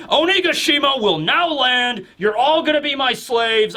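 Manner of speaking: acted tyrant's boom; booming proclamation. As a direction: proclaim it to the island as a conqueror. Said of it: "And then Kaido just booms".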